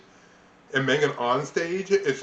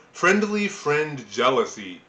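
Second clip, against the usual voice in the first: slow careful tongue twister; 3 semitones higher, slower than usual. Shown as a demonstration. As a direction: stumble slowly through friendly friend jealousy. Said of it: "Try saying that fast".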